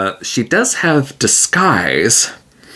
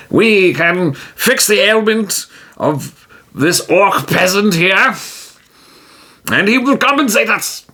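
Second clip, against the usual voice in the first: higher, slow and pleased; triumphant hero; 8 semitones higher, slower than usual. Acted. Tijim telling Magnaza they have a quest, triumphantly. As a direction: proclaim the new quest.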